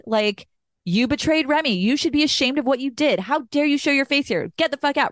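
retold angry confrontation. Adult Remy confronting her mom and Frank, imitating angry rage. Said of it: "is angry and is".

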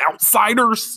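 hammed-up tough guy sneer; mock gang taunt. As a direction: taunt like a cocky gang kid. S0 voices gang member challenge.

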